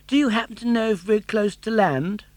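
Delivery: put-on high, bright puppet boy voice; Pinocchio. Puppet boy urging his father, high and eager.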